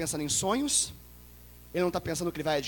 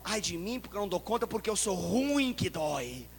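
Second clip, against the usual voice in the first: quiet lament; 3 semitones higher than usual. Acted. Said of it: "Ele fala".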